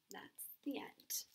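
whispered, slow close to the story; soft whisper. Real, not acted. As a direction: breathe the last words out slowly. Closing the story softly.

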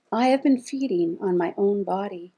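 measured poem recital; poetry reading. Acted. Poet reads her poem on self-harm, measured recital. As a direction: read it out as verse, phrase by phrase.

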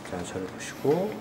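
lightly voiced hypnotist guiding. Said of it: "최면술사 닥터 크레용입니다".

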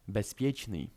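bezpieczny said as bes-pieczny with an s; Russian bespechny. Shown as a demonstration. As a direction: start bezpieczny with bes, an s not a z. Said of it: "piszemy to używając litery s".

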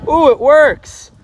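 high thrilled squeal of delight; real burst of joy, stretched out slowly; excited surprise. Real, not acted. Horn works from far away.

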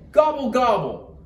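high, lively turkey gobble; excited gobble. A narrator's reading. Turkey popping out for Santa, high excited gobble.

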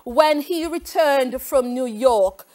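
reading test options in a put-on foreign accent, nasal vowels on James. Teacher reads quiz options to students in a put-on foreign accent. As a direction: hold a comic put-on foreign accent through the whole lesson. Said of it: "I am going to read the options with an accent".

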